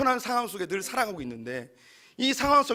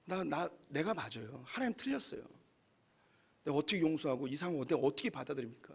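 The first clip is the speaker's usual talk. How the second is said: quiet sulking Jonah; 5 semitones lower, 9 dB quieter than usual. Acted. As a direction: sulk quietly that you are right. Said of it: "요나가 화내고 끝나요".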